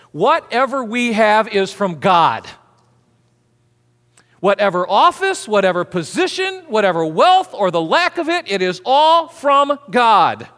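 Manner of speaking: slow, loud, emphatic sermon climax; forceful preaching. Acted. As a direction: drive the point home slowly.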